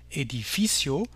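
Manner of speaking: edificio stressed on FI; Spanish edificio with accented "fi"; stress on second-to-last syllable. Shown as a demonstration. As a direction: say e-di-FI-cio, leaning on "fi". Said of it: "avec l'accent sur l'avant-dernière syllabe".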